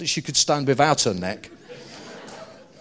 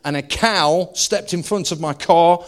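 retold woman's story; 3 semitones higher, 5 dB louder than usual. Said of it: "she had quite a strong Texan accent".

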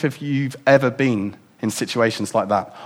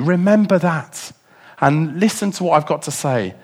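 voice of God; 6 semitones higher than usual. Acted. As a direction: speak as God reassuring his exiled people. God answering his people.

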